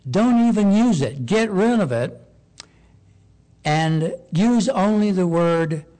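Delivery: a preacher voicing God forbidding the word Baal; God's firm command. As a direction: lay down God's order with force. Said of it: "And God says".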